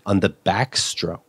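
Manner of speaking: pretentious dad. Retold or imitated. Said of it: "real pretentious".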